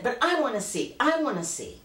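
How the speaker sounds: put-on high little-girl whine of protest; begging child. Child begging her mother to let her see, pleading.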